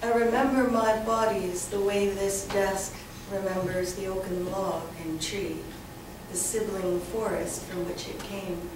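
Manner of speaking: measured poem recital with deliberate pauses; slightly lifted, careful poet's reading voice; poetry reading. Acted. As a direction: read it line by line, letting phrases hang. Reads second poem aloud.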